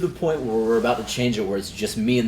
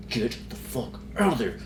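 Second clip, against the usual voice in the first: mock stage yell; 5 semitones higher, 4 dB louder than usual. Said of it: "under his breath screaming at us".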